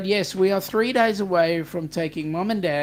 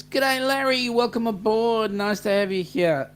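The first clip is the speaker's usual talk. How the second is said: cheery read-out welcome; 5 semitones higher, 3 dB louder than usual. Retold or imitated. Reading a welcome message aloud.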